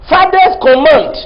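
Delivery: Fathers command, slow and firm; slow emphatic. Shown as a demonstration. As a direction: lean on each word. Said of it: "preaching emphasis".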